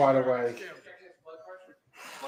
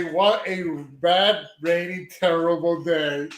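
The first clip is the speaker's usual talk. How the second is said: mock gloom; slower than usual. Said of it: "I'm gonna do a little parody".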